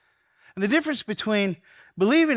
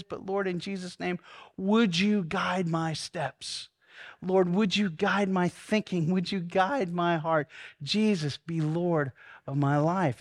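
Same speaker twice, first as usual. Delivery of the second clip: hushed prayer; slower than usual. Acted. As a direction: ask gently and slowly for guidance. Prays aloud, settling down.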